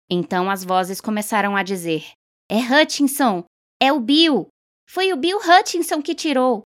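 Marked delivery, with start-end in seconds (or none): 2.5-6.6 exclamações agudas e mais altas; anúncio agitado. A narrator's reading. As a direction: espalhe a notícia no meio da multidão. Vozes anunciam o sorteado. (vozes da multidão anunciam o nome, agitadas e agudas)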